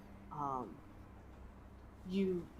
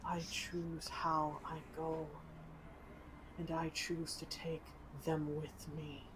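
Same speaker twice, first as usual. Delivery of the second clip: dying dragon voice; 8 dB quieter than usual. Acted. Dragon's last charge.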